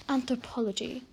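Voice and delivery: half-hearted British professor; a light stab at British "Anthropology"; attempted British accent. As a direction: imitate a British professor, not very well. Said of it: "He has a British accent".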